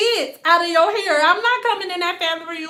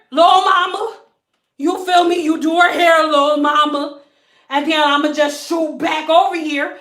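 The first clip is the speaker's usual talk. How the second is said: louder, swaggering street talk; hood voice; 3 dB louder than usual. Retold or imitated. Client acting tough with the stylist, a lightly done hood voice. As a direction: play it cool and tough. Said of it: "she had her hood voice on".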